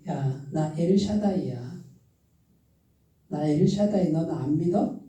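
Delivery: mild rebuke, slowed down; rebuking God. Retold or imitated. God rebukes the doubting believer, softly and slow. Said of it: "책망해요".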